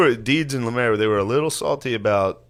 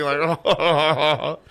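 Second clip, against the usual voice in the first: higher, put-on nervous laughter; imitated nervous laugh; 5 semitones higher than usual. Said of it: "like nervously laughing".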